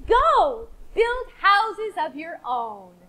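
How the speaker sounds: slow, sing-song once-upon-a-time telling; storytelling. Acted. Teacher opens the fish story for the class, slow and sing-song. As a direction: draw the class into the tale slowly.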